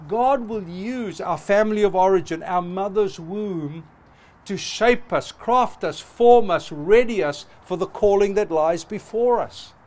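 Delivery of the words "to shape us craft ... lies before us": building preaching cadence. Real, not acted. Preacher builds a rising triple.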